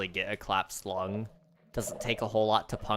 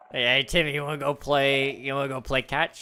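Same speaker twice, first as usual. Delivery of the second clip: playful dad; 4 semitones higher, 5 dB louder than usual. Acted. Comic dad voice in skit.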